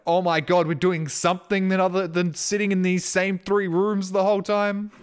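high, excited outburst in a dog's imagined voice. Acted. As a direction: blurt it out like a dog thrilled about a walk. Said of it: "you get so excited for walks".

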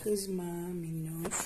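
slow, soothing words; calm the angry cat. Real, not acted. Kediyi sakinleştiriyor. (yavaş, yatıştırıcı sesle)

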